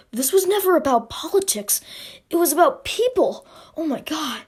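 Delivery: amazed realization. Acted. The North reads Uncle Tom's Cabin, amazed realization. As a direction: marvel as if your mind is blown.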